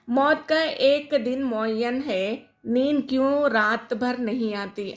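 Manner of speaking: slow, measured reading of a verse; poem recitation. Shown as a demonstration. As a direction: recite the couplet slowly, letting each word sit. Teacher recites the couplet. (آہستہ، ٹھہر ٹھہر کر شعر پڑھنا)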